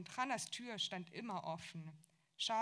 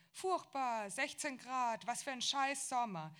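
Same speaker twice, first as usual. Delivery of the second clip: loud, high complaining about the weather; mother calling out; 5 semitones higher, 5 dB louder than usual. A narrator's reading. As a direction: grumble loudly down the phone line. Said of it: "Und dann rief sie". (laut und hoch klagend über das Wetter)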